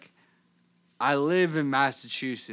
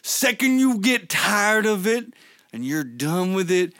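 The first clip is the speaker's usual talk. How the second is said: hyped wrestler promo voice; wrestling promo; 4 semitones higher than usual. Acted. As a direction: keep the promo going. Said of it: "cut a promo".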